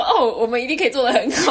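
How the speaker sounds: retold boast, laughing through it; laughing confident quote. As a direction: chuckle through the promise. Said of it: "我们还跟他说". (边笑边说的自信话)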